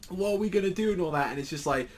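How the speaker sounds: high anxious pleading; fretful character. Retold or imitated. Character asking Gintoki what to do, high anxious plea. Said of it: "it's like".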